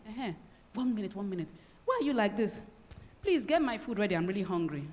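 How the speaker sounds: distracted brush-off. Shown as a demonstration. Husband on a call dismissing his sad wife, distracted. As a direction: toss it off while busy on the phone.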